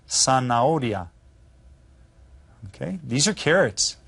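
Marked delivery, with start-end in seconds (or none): 0.1-1.1 "Zanahoria" starting with an S sound. Shown as a demonstration. Teacher showing how Spanish Z sounds, Z said as S. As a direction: say "Zanahoria" as if spelt with an S. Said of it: "Z is almost pronounced like an S".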